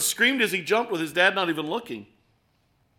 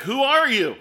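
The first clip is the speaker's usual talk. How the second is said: mock yell, higher and louder; retold yell; 7 semitones higher, 6 dB louder than usual. Man hanging from the branch yelling up, mock shout. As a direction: shout the question upward. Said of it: "So he yells back".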